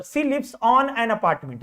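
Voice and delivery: option read out very slowly; slow reading aloud. Shown as a demonstration. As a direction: spell out each word of the sentence. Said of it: "क्या होगा सही answer". (विकल्प को बहुत धीरे पढ़ना)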